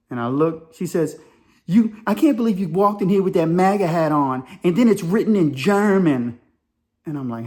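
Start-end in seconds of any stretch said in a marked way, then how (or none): 1.7-6.4 mildly mock-outraged, higher voice; imitated indignant woman. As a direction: accuse in a lightly imitated woman's voice. Acts woman confronting him.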